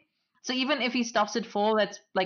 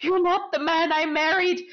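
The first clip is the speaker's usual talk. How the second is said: higher, louder, mock indignant through laughter; imitating Katrina; 8 semitones higher, 4 dB louder than usual. Mocking Katrina scolding her new husband, higher and laughing. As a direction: play the scandalised bride half-laughing. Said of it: "Katrina going".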